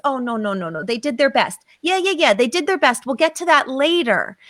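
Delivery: placating inner critic, brushing it off; a hint of a voice that smooths everything over; dismissive superego voice. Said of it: "that voice that says".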